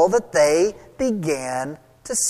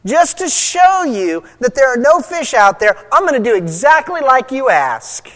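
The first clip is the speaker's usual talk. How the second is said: sarcastic Peter. Retold or imitated. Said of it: "said very sarcastically".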